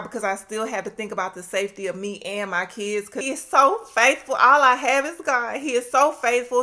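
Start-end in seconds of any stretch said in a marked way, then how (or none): 3.1-6.6 loud praise. Real, not acted. Praise declaration.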